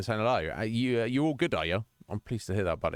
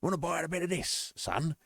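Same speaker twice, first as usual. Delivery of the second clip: higher-pitched chummy market trader; mock cockney merchant patter; remake merchant; 6 semitones higher than usual. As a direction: hawk weapons like a cheeky London geezer. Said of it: "He just sounds like".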